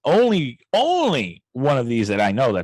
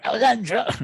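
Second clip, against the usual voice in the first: lightly voiced Steve-O, pitched up; a quick jokey hint of Steve-O; Steve-O impression; 9 semitones higher than usual. A podcast host jokingly comparing the argument to Steve-O. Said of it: "we sound like Steve-O there".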